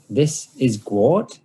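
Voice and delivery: slow, sneering mock introduction; mocking drawn-out "This is Gwart". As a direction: say it slowly with a sneer. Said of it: "he says mockingly".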